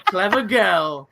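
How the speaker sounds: very slow mock Australian accent on both words. Host repeats his Australian accent attempt, slow and mock. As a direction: stretch it out in a jokey Aussie voice. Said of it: "That's my Australian accent".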